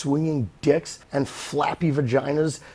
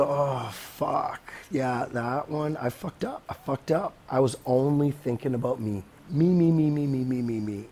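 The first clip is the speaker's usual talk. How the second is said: softer, dawning regret, trailing lower; a soft, fading confession; quiet realization; 3 semitones lower, 6 dB quieter than usual. Retold or imitated. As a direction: mutter it like the penny just dropped. Listener realizing own selfishness.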